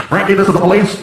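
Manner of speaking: mock police loudspeaker voice; police microphone announcement. Dad warns son through police microphone, mock official announcement. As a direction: announce it like an officer on a car speaker. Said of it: "You wanna use the microphone?".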